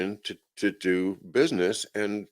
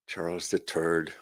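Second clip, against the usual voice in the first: put-on softer joking Irish accent, THIRD as "turd"; lightly Irish, TH hardened to T; quiet mock-Irish aside; 2 semitones lower, 6 dB quieter than usual. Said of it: "with the Irish accent".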